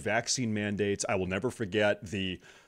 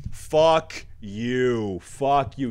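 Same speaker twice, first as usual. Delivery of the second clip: angry; 3 semitones higher, 5 dB louder, much slower than usual. Real, not acted. Angry rant at opponents.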